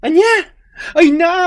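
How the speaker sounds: sharp high whispered "what?"; shocked whisper. Acted. Friend stunned by the news, high shocked whisper.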